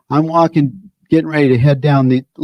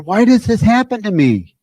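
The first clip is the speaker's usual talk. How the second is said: higher whiny self-pity; mock self-pity; 7 semitones higher than usual. Speaker voicing the self-pitying mind, higher mock whine. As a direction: whine it like a sulking victim.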